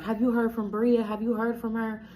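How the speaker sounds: imitating his mama asking around in a panic; frantic mother-in-law. His mother calling around for Bria, mock frantic. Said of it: "Like, just tweaking".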